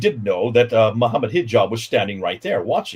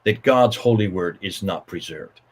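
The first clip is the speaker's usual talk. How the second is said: indignant Hatun. Retold or imitated. Retelling Hatun confronting him, mild indignation rising. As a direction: challenge him, rising into outrage. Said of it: "speaking as every Muslim".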